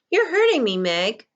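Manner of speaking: high, loud sharp protest. A narrator's reading. Boy snapping at Meg who grips his arm, sharp and high. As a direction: snap at his sister in pain. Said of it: "Charles said sharply".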